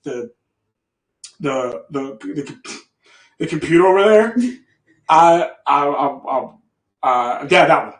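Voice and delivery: low, soft, stammering request; acting out a reluctant, halting mumble; nervous hesitation. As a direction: stumble timidly over every word, barely audible. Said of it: "I'm saying it like this".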